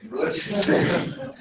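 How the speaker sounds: a slow word that breaks into laughter; real laugh over a mock Facebook status. Real, not acted. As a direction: drag the word out, then laugh.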